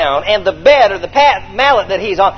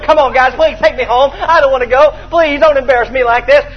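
higher, pleading whine; mock begging; 4 semitones higher than usual. Fred begging his friends to carry him home, whiny plea. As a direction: beg them to take you home.

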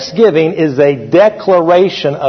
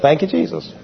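quiet muttered thanks; 8 dB quieter than usual. Retold or imitated. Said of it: "I just say that a lot of times".

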